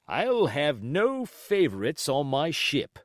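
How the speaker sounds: slow, pointed loud remark; said to be overheard; quite loudly. Acted. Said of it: "quite loudly".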